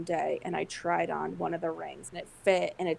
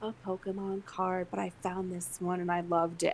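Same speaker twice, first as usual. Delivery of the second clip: planned speech; 2 semitones higher, 4 dB quieter than usual. Retold or imitated. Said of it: "I was gonna be like".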